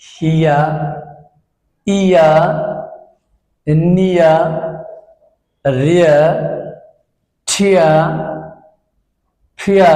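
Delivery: "হিয়া" and "নিয়া" end in an open "ইয়া" with no r sound; teacher modelling words. Shown as a demonstration. Teacher to students, showing the silent r clearly. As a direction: say each word ending "ইয়া" and leave out the r. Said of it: "রটা উচ্চারণ হবে না".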